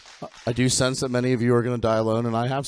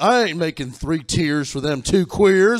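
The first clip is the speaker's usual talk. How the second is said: higher, louder hammed-up bigot; mock redneck baker; 9 semitones higher, 5 dB louder than usual. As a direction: play a huffy small-town baker. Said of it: "imagine that person being like".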